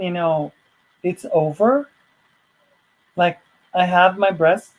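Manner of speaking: can't believe it's already over; retelling her own shocked waking question; stunned disbelief. Retold or imitated.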